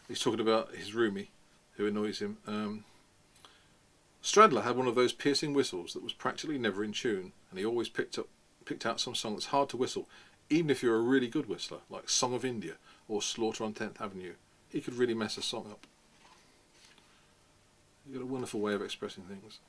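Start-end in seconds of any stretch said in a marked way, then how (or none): 4.2-15.9 reading a novel aloud, casual and wry; story reading. A narrator's reading. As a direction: narrate Holden's grumbling. Reads novel passage aloud.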